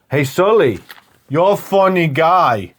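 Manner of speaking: slow, lightly put-on hero voice; film hero. Hero addressing Sully earlier in the film, lightly imitated. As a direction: stretch out "funny guy". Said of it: "he says to him".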